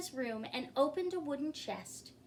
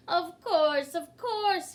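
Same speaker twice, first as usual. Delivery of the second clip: louder and higher, waving it away; dismissive king; 6 semitones higher, 8 dB louder, slower than usual. A narrator's reading. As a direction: brush her off like a self-important king. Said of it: "he said".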